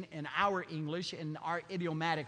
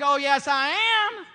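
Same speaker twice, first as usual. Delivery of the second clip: calm reply; 10 semitones higher, 14 dB louder, slower than usual. Acted. Jesus answers the Jews calmly.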